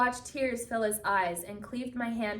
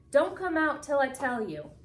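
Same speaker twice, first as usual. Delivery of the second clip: a hint of a firm old woman's order, higher; stern old woman; 6 semitones higher, 4 dB louder than usual. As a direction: keep them hidden, firm and urgent. Old woman ordering kids to stay.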